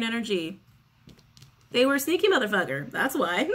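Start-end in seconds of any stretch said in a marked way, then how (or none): 1.7-2.9 sassy jab. Real, not acted. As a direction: say it with sass. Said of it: "I'm very sassy today".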